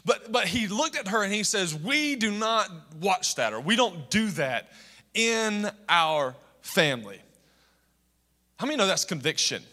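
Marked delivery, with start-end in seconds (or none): 1.7-7.2 lightly acted, slow and deliberate stand; firm refusal. Four-year-old son refusing the hostess, retold slow and firm. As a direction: spell it out word by word, mildly mock-stern.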